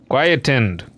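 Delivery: quietened repeated low, settled; repeating pronunciation. Shown as a demonstration. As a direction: echo quietened to yourself. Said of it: "it is pronounced quietened".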